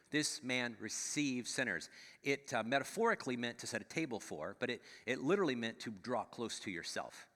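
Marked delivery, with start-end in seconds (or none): 0.1-1.9 grumbling complaint. Retold or imitated. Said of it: "That's why they were so angry".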